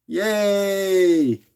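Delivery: high cheerful yay; excited cheer. Real, not acted. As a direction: cheer the win. Winning bid closes, cheering.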